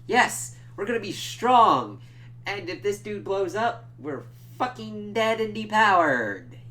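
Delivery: high, loud sarcastic parody; mock the plan in a silly high voice; sneering high-pitched send-up; sarcastic mockery. Mocking Homelander's project-strength plan.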